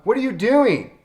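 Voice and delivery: high, loud heckler's holler; hollered question. Retold or imitated. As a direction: shout it out from the audience in disbelief. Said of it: "somebody hollers out".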